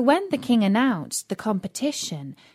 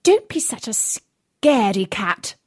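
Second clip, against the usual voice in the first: wicked stepmother. Acted. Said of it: "hissed the stepmother".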